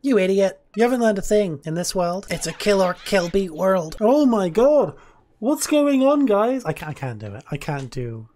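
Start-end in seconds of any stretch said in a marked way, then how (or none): 0.0-4.0 louder mocking Flowey voice; jeering evil flower taunt; Flowey impression. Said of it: "That was my best Flowey impression". 4.0-6.6 cringe YouTuber voice. Pretend.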